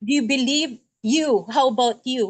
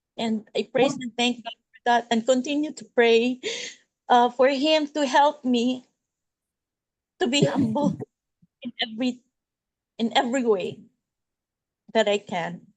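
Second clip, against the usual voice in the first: speaking through tears, crying while talking. Giving thanks to god before a group, crying while talking. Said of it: "I'm crying right now".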